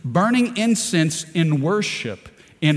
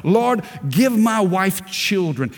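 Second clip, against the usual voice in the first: raised, urgent preacher's plea to God; pleading prayer; 4 semitones higher than usual. Retold or imitated. Preacher voicing Isaac praying for his wife, pleading. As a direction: re-enact a heartfelt plea, pitched up. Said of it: "He pleaded. He offered worship".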